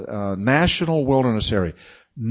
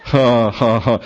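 mock uproarious laughter; 3 semitones lower, 4 dB louder than usual. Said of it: "that's uproarious laughter".

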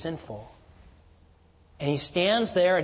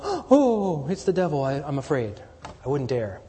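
a gasp, then a half-hearted scared stammer; mock frightened gasp. Michael imagined as scared of the devil, mildly mock afraid. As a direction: pretend to be spooked by the devil. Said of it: "it's not sort of like Michael was going".

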